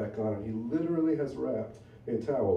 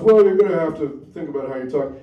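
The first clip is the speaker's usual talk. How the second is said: louder, snide comeback; imitating a rude comic, a little louder; mock snotty retort; 3 semitones higher, 11 dB louder than usual. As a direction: throw it back at him with attitude. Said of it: "And he goes".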